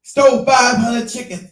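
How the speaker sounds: slow, heavy, every word weighted; slow emphatic accusation. Retold or imitated. Accusing the con man to his boy, slow and emphatic. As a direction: spell out the theft slowly. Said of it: "I said".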